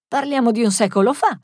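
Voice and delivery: emphatic and lifted; exclaiming. Acted. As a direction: exclaim with a lift in the voice. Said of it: "esclamò Loretta".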